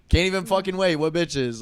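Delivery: mock indignation. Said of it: "I'm like".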